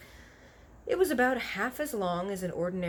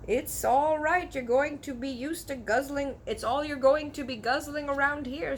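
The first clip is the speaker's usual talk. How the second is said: high coaxing giant; 7 semitones higher than usual. Acted. Giant urges Sophie.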